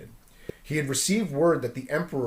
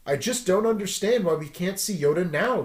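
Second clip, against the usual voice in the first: griping; 5 semitones higher than usual. Acted. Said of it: "griped Luke".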